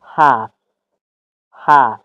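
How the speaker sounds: "هاف" mit kurzem flachem A; American "هاف", short A; American accent. Shown as a demonstration. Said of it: "امریکن".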